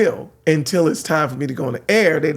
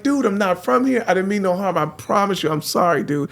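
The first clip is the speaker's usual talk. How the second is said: scared pleading; 3 semitones higher than usual. Retold or imitated. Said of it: "I was scared to death".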